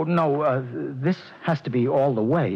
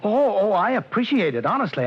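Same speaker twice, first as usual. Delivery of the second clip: higher, eager to please; nervous gratitude; 7 semitones higher than usual. Acted. Jittery client assures the hitman he's grateful, high. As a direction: gush thanks so he won't change his mind.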